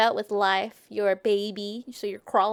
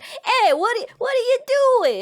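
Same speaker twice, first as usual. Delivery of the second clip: high, louder challenge; mock road-rage yell; 11 semitones higher, 6 dB louder than usual. Soldiers road raging at a traveller, mock yelling. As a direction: holler it like an acted quarrel. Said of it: "they're just yelling at each other".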